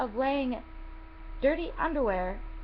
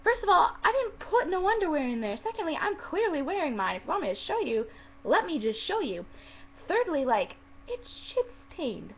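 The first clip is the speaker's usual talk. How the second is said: higher-pitched indignant rant; retold exasperation, punchy start; ticked off; 5 semitones higher than usual. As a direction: count off your defence with worked-up emphasis. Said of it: "I was so ticked".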